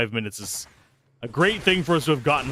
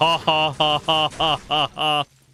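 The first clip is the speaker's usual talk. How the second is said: slow, forced, irritating fake laugh; 4 semitones higher, 4 dB louder than usual. Testing speech-to-text with laughter, Tidus's fake laugh. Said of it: "like Titus does it ... the most irritating fake laugh ever".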